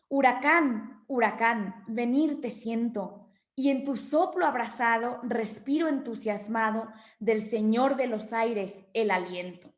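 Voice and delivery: measured reading of a verse stanza; recited line by line like a poem. Acted. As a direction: read the verse with feeling, unhurried. Reads poem stanza aloud.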